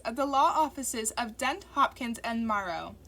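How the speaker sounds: polite office receptionist. A narrator's reading. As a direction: professional phone greeting. Receptionist voice continues.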